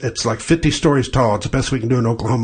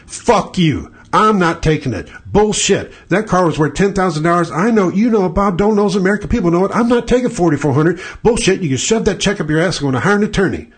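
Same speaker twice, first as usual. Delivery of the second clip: defiant telling off; 4 semitones higher than usual. Pretend. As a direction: tell the adjuster off hard. Telling off the insurance adjuster.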